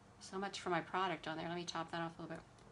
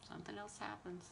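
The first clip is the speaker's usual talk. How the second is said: very soft, normal pitch; quiet, resigned-sounding echo; hushed repeat; 12 dB quieter than usual. Real, not acted. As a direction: drop to a near murmur. Repeats the line much softer.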